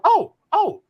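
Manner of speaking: imitated high-pitched taunt, opening in yelps. Opponent told the rookie wants Sweet Swill, imitated high voice. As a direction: mimic his high voice, stretching the threat. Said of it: "He got a high voice".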